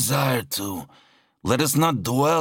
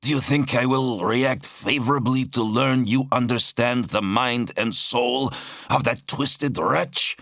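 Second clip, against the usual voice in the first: high-pitched, indignant tirade; snapping angrily; 7 semitones higher than usual. A narrator's reading. Zal condemns his brother's hidden corruption, snapping. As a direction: accuse him hotly, pitch held high. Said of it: "Zal snapped".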